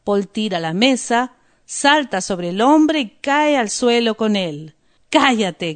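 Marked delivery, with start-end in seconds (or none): 5.1-5.7 shout. Acted.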